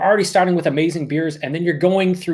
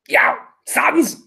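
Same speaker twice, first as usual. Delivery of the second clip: overcome; 11 semitones higher than usual. Real, not acted. Overcome calling to viewers.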